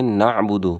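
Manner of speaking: نعبد as na'-budu with a throaty ain; correct ain. Shown as a demonstration. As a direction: sound the ain clearly in نعبد. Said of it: "عین کی آواز ضرور نکالیں".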